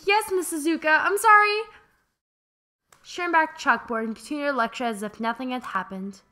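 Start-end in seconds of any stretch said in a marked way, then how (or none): 0.1-1.6 flustered apology. Acted. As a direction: caught off guard, rising and louder. Flustered student called out.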